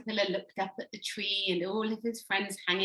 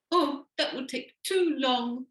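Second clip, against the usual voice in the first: whining; 3 semitones higher, slower than usual. Acted. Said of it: "whined the caterpillar".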